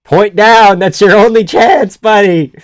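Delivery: loud, high urging; urgent cornerman shout. Real, not acted. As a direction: shout advice at the fighter. Urging fighter on during live watch.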